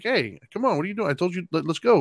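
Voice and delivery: retold nagging to get moving; parental prodding. Retold prodding of daughter to dress.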